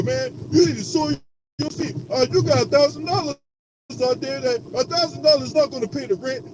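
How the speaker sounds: slick, persuasive hustler voice; smiling menacing loan shark. Retold or imitated. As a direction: sweet-talk them like a loan shark. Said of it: "You sound like a goddamn loan shark".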